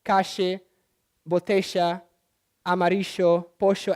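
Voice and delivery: calle, botella, amarillo, pollo with ll said as sh; sheísmo. Shown as a demonstration. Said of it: "everything that has double L and Y becomes a sh".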